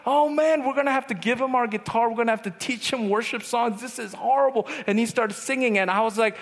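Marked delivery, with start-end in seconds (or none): 0.1-4.7 high-pitched comic despair; exasperated dismay. Retold or imitated. Youth leader deciding the singer needs help, exasperated dismay.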